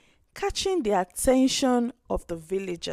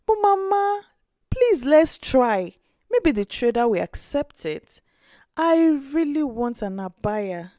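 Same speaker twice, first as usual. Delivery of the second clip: put-on pleading little girl; 3 semitones higher than usual. Orphan girl begs grandmother to trade the old plate, pleading child voice. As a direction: plead with your grandmother, please. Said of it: "Aisha begged".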